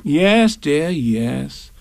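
humouring, drops from high to relaxed; soothing. Acted. Kanga humouring supposed Roo, soothing. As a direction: placate a fussing child. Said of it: "said Kanga soothingly".

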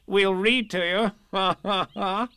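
high, loud, with a ha-ha laugh; jolly rabbit chortle; cheerful. A narrator's reading. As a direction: chirp it brightly, ending in laughter. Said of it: "said Rabbit cheerfully".

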